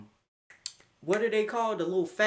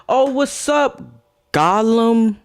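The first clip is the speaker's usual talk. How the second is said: Gollum voice; 7 semitones higher, 10 dB louder, slower than usual. Acted. Greeting chat in a put-on voice.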